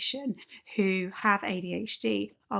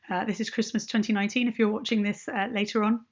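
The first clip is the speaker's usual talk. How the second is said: hiccups; faster than usual. Real, not acted. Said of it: "Excuse me, I've got the hiccups".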